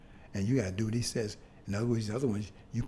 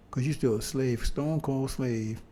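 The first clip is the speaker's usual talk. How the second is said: slow emphasis; slower than usual. Real, not acted. Slow emphatic sermon line.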